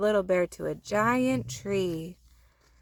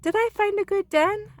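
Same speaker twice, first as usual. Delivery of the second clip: eager little bear; 13 semitones higher, 5 dB louder than usual. Acted.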